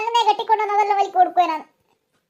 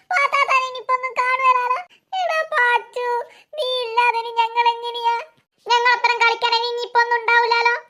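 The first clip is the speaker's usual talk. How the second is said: hammed-up weepy goodbye; acted crying. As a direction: lament tearfully over a farewell. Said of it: "നിങ്ങൾ ഇങ്ങനെ കരയല്ലേ".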